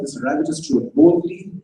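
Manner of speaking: ordinary delivery, nothing marked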